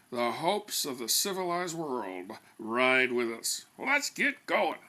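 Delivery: slow, solemn rallying cry; slow pompous send-off; grandiose rallying call. Acted. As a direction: proclaim it like a mission to save civilisation. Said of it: "To literally drive home the importance".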